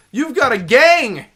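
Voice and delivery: loud, high, drawn-out outcry; stretched high yelp of disbelief; alarmed surprise. Real, not acted. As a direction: cry out slowly at being outnumbered. Alarmed at enemy's gang.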